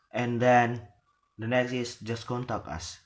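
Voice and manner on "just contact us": "us" closing with a fall; falling intonation. Shown as a demonstration. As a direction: drop down on "contact us". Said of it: "the intonation is falling".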